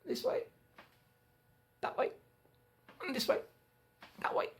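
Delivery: swaying singsong. A narrator's reading. Beanstalk swaying.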